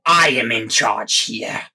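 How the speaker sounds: a tyrant screeching for order; pompous shrill tyrant. Acted. Inquisitor slaps and shouts.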